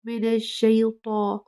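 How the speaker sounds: शई said softly and slowly; soft correct take. Shown as a demonstration. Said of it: "नरमी से अदा करना है".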